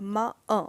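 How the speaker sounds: माँ with its vowel "अ" sounded separately after it. Shown as a demonstration. Teacher showing learners the vowel inside the consonant, vowel sounded out. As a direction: say माँ, then voice the "अ" inside it on its own. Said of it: "आ का उच्चारण भी".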